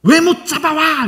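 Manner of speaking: high, drawn-out angry demand; mock scolding. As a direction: scold the men in an acted outburst. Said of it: "그러니까 막 혼내는 거예요". (길게 끌며 높게 혼내는 말투)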